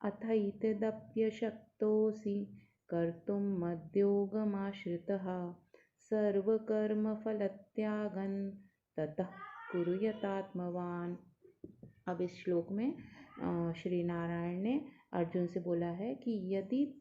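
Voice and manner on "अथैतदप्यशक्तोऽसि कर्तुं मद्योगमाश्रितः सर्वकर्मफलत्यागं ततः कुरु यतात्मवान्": slow, measured Sanskrit verse; verse recitation. Shown as a demonstration. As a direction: recite the whole shloka slowly and evenly. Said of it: "पूरा श्लोक मैं पढ़ती हूँ".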